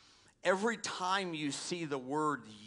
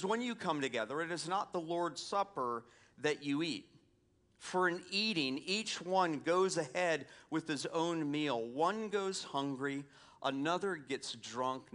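raised, earnest reading of Paul; scripture reading; 3 semitones higher than usual. Acted. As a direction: read the letter with weight. Reads Paul's letter aloud.

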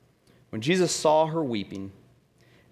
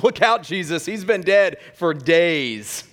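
mock warning; 3 semitones higher, 5 dB louder than usual. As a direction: warn him off, drawing out the last words. Comic acted warning to Jesus.

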